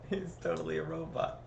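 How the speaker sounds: said softly after the laugh. Real, not acted.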